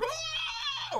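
very high laughing scream from a movie victim; agonized scream. Retold or imitated. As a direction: screech like the acid victim. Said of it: "he's like".

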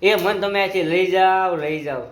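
slow, drawn-out mock pleading; retold plea. Husband retelling wife's first Facebook message, mock plea. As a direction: imitate her begging, stretching the words. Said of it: "એનો મને પહેલી વાર એ Facebook-માં message આવ્યો હતો".

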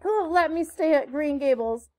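put-on high, impassioned pleading of a penitent girl; beseeching apology. A narrator's reading. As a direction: beg forgiveness with theatrical remorse. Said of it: "held out her hands beseechingly".

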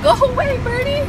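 high, pleading plea; scared pleading. Real, not acted. Driver begging a bird to fly away, high pleading. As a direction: beg it to go, frightened.

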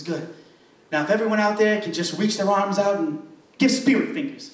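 a hint of a preacher easing the crowd in; black church preacher. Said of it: "That was a black church".

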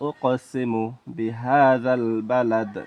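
slow, measured verse recitation; drawn-out Arabic recitation; Quran recitation. Shown as a demonstration. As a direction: recite slowly with long held vowels.

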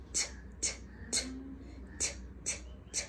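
breathy whispered T taps. Shown as a demonstration. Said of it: "T makes the sound".

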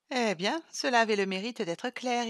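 ironie souriante, plus forte; ironique. Acted. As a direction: lancer avec ironie. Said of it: "ironisa Sylvie en souriant". (Sylvie ironise en souriant)

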